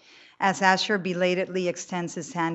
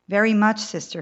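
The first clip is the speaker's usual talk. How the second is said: earnest; 4 semitones higher, 8 dB louder than usual. Acted. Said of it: "he answers earnestly".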